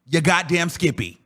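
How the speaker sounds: telling someone off. Retold or imitated. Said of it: "at some point I'm gonna tell you".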